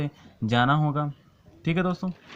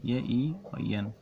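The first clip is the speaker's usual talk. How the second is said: slow spelling out; 2 semitones lower, 6 dB quieter, much slower than usual. Shown as a demonstration. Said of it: "सही से लिख देता हूँ".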